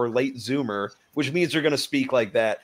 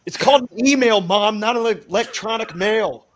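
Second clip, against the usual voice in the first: sarcastic; 8 semitones higher, 5 dB louder than usual. Pretend. Mocking a parent's tech words.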